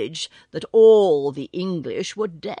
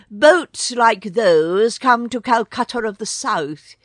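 adjutant bird voice; 3 semitones higher, 5 dB louder than usual. Acted. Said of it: "said the adjutant".

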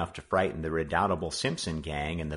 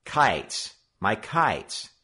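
bold; 3 semitones higher, 4 dB louder, much slower than usual. Acted. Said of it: "Joe spoke up boldly".

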